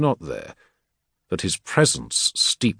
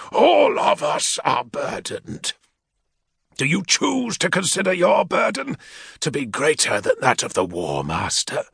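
lightly voiced warlord's aide, measured threat; menacing equerry; 5 semitones higher than usual. Equerry rebuking a petitioner, lightly voiced menace.

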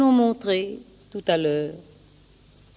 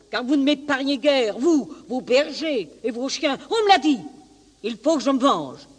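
angry wolf, pitch raised; vengeful wolf; 5 semitones higher, faster than usual. Acted. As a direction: build a heated case for revenge. Wolf's angry speech in the fable.

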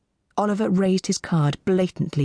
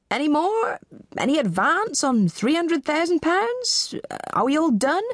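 persistent auctioneer; 11 semitones higher than usual. Acted. Auctioneer presses for higher bids.

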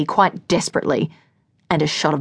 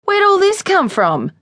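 much higher, bewildered question; he truly has no idea why; genuinely baffled; 14 semitones higher, 3 dB louder than usual. Acted. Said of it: "He sounded genuinely baffled".

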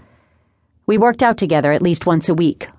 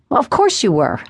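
firm, higher-pitched reassurance; without hesitation; 5 semitones higher than usual. A narrator's reading. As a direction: state it as obvious, no doubt. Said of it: "I stated without hesitation".

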